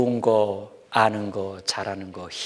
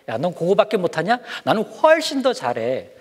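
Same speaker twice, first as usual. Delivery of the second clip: higher, cocky boast; bragging kid; 5 semitones higher than usual. Acted. Kid bragging to a friend, cocky and higher. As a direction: show off like a child outdoing a friend. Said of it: "이렇게 좀".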